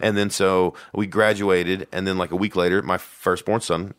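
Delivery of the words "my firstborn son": slow, solemn regal announcement; regal epic tone. Real, not acted. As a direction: say it like a king's heir. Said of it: "That's, like, epic the way you said that".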